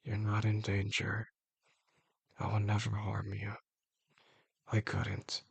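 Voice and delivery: soft, even-pitched promise; quiet reassurance. Acted. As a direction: reassure them softly, without pushing. Captor reassures drugged partner.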